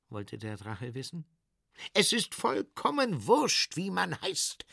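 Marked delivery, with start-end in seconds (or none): 1.9-4.6 high, irritated hiss; hissing salesman. Acted. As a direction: spit it out, losing patience. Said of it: "zischte der Verkäufer".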